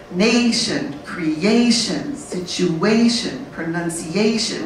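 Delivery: slow list, each word leaning on its -A-tion syllable; one stressed syllable. Shown as a demonstration. Teacher shows the important syllable, long stressed AY before -tion in each word. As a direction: stretch the AY in Nation, creation, situation, pronunciation. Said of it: "is in one important syllable".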